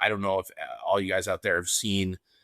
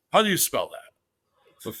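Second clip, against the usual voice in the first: put-on higher, slow, laughing Sheik accent; Iron Sheik voice; 6 semitones higher, slower than usual. Sheik asking a fan to spell Tim, Iranian accent. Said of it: "He goes".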